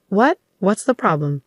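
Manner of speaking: husband snapping at his wife over the phone; irritated snap. Acted. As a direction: bite back at her, annoyed. Husband snaps back over phone.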